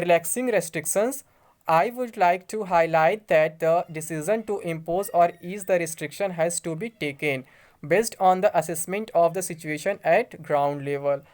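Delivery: slow, formal reading of an official letter. Acted. Vlogger reads the home secretary's letter to viewers, slow formal reading. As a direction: read the official notice word by word.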